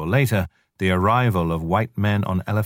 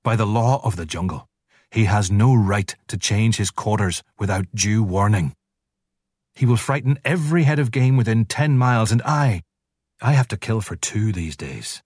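angry wolf; 3 semitones higher than usual. Acted. Father Wolf angrily complaining about Shere Khan. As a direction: rise in anger as he goes. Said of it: "Father Wolf began angrily".

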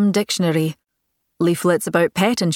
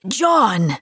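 hollering; 3 semitones higher than usual. Acted. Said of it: "hollered up the stairs".

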